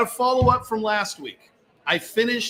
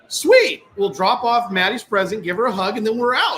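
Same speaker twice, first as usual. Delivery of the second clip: chirpy; 3 semitones higher, 4 dB louder than usual. Retold or imitated. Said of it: "And I said".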